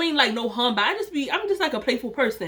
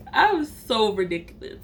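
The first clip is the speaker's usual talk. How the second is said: amused, through her own laughter; helpless giggles between phrases; laughing at herself; 4 semitones higher than usual. Real, not acted. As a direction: say it while cracking up.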